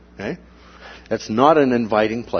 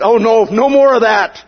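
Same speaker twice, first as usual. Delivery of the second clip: mock pleading; 9 semitones higher, 6 dB louder than usual. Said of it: "they said".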